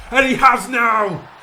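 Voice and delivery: real elated scream; goal celebration shout. Real, not acted. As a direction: yell it as the ball hits the net. Goal scored in his game.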